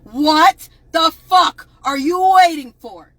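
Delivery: slow shouted demand at an official; angry demand. Pretend. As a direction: spell out each word like a furious question. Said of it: "should be asking Todd Blanche".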